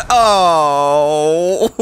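drawn-out laughing howl. Real, not acted. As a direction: laugh it out in a long wail. Laughing after survival.

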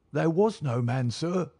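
high-pitched nervous servant; nervous denial. A narrator's reading. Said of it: "Bannister licked his dry lips".

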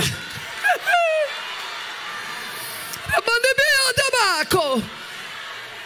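high, ringing burst of laughter. Real, not acted. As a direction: laugh out with sheer joy. Joyful laugh in sermon.

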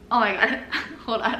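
laughing through it; half-laughing, half-gagging. Real, not acted. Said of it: "I'm starting to gag just".

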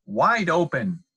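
high, loud order; yelling. A narrator's reading. Dentist's wife to the fox in the chair, yelling. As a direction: yell it as an urgent command. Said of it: "yelled his wife".

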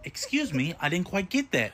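robotic phone menu voice; automated phone system voice. Acted. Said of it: "automated voice messaging system".

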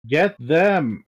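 a touch of a yelled battle order; mild acted yell. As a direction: call out the order with restrained force. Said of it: "He yells at you".

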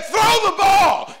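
slow, high shouted command; yelling instruction. Retold or imitated. Father shouting to his son on the field, slow and loud. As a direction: drag it out loud from the stands.

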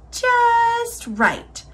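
high, drawn-out contented murmur. A narrator's reading. Sleepy girl finding the cozy bed, murmuring. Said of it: "Aloo-Kee murmured".

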